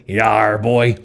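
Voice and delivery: a light gruff pirate voice. Acted. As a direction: growl it like a pirate. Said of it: "like a pirate".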